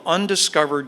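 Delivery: "undiscovered" given a firm lecturer's emphasis; "undiscovered" stressed mid-sentence. Shown as a demonstration. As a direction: hit "undiscovered" clearly. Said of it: "I emphasize the word undiscovered".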